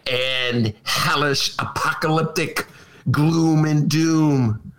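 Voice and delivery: slow, drawn-out mock Trump voice; a hint of a fearmongering politician, slow and ominous. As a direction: drag it out like a lightly voiced doom-mongering Trump. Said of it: "He's gonna say".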